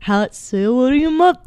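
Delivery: a hint of a chatty actor; lightly voiced, casual impression of a rapper. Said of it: "this is Marky Mark talking to a goat".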